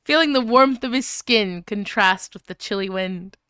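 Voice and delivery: lightly dramatic fan fiction reading; story reading. Acted. Reading a ridiculous fic to chat, lightly dramatic narration. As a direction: read it like a serious novel.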